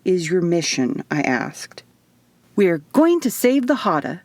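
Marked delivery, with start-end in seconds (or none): 2.5-4.2 bright, proud declaration with a big smile; beaming announcement. Acted. Isadora beaming at Eva about her mission, smiling declaration. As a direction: say it as if it were profound. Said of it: "she said with a blinding smile".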